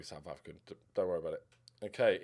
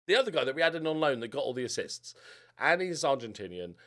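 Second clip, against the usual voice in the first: lively, louder commentary to viewers; YouTube narration; 3 dB louder than usual. Acted. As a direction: talk the season through for the channel. Recorded video narration.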